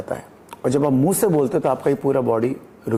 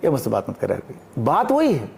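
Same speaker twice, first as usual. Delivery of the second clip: another subtext. Shown as a demonstration. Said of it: "अब एक और होता है".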